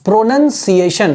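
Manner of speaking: slow "प्रोनंसिएशन", broken into parts; pronunciation demo. Shown as a demonstration. Teacher introduces the English term, "प्रोनंसिएशन" slowly in parts. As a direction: spell out "प्रोनंसिएशन" by ear, nun then si-ay-shun. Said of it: "इसको कैसे pronounce करेंगे".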